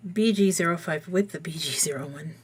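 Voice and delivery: ordinary delivery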